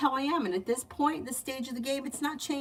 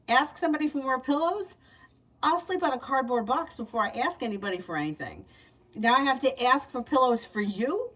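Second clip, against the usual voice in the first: higher, indignant retort to a friend; mock incredulous; 4 semitones higher, 3 dB louder than usual. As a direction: act out disbelief at the request. Acting out her incredulous refusal.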